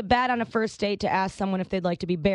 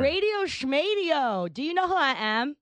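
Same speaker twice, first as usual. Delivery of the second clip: mock diva; 3 semitones higher than usual. Scoffing at the doctor's radio excuse, haughty diva.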